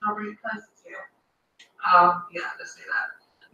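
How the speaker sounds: whispered aside. Real, not acted. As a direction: drop to a whisper. Bringing food close to camera.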